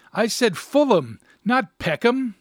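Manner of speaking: high, loud punchline shout; exasperated shout. A narrator's reading. Husband correcting his pal over the suburb, shouting. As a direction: hammer home the pal's blunder, loudly. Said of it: "he shouted".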